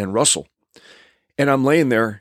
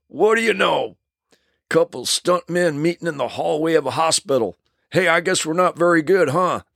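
chuckling; 6 semitones higher than usual. Retold or imitated. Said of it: "he starts to chuckle".

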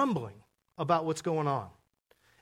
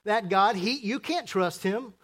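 lightly voiced complainer whispering to Joshua; grumbling gossip. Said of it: "it sounds like this".

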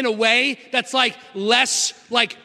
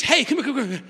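blunt real talk. Retold or imitated. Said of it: "What I wanna say is".

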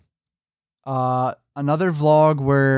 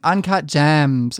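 put-on Valley girl voice; much slower than usual. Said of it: "her saying".

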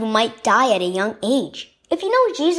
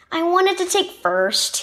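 breathless; 6 semitones higher than usual. A narrator's reading. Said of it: "he said breathlessly".

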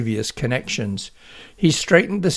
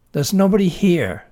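male voice; 6 semitones higher, 5 dB louder than usual. Acted. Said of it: "said the male voice".

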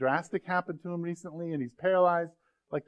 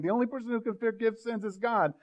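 scribes and Pharisees; 7 semitones higher than usual. Retold or imitated. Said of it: "the scribes and the Pharisees are saying".

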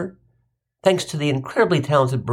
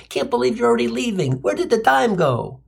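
Jewish mother voice; 6 semitones higher than usual. Retold or imitated. Mom quoted at goodbye.

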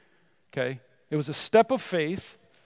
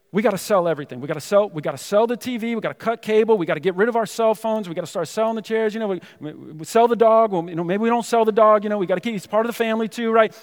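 louder, higher frantic listing of things to sell; freaking out; 4 semitones higher, 5 dB louder than usual. Retold or imitated. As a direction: rattle off the plan in a half-joking panic. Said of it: "And I was just freaking out".

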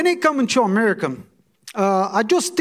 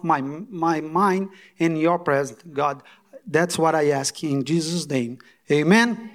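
lower, unhurried prayer with pauses; heartfelt prayer; 3 semitones lower than usual. Real, not acted. Guest pastor thanking God before preaching, heartfelt prayer. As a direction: give thanks to God, phrase by phrase.

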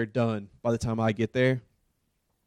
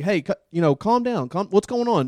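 higher pleading calm-down; calming her down; 6 semitones higher than usual. Retold or imitated. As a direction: soothe a screaming woman, pitched up. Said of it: "I'm like".

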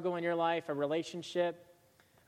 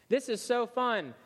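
gleeful Rapunzel; 7 semitones higher than usual. Acted. Rapunzel's gleeful swing in dialogue.

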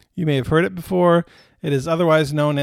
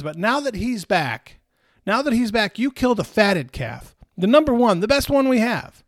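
jealous protest; 5 semitones higher than usual. Retold or imitated. Older brother's jealous complaint.

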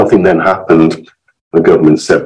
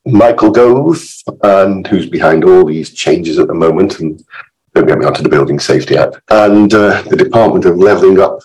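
hoarse, croaky from illness; rough, croaky voice getting over illness. Real, not acted. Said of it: "my croaky voice".

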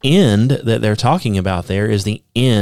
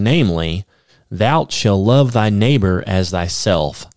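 scripture reading. Acted. Reads commandments aloud from Romans.

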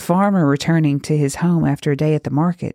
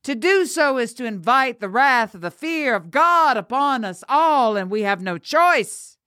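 preaching; 7 semitones higher than usual. A narrator's reading. Father preaches judgement over his daughter.

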